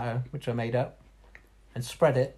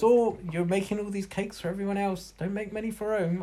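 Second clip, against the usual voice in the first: imitating mum; 6 semitones higher than usual. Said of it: "my mum goes".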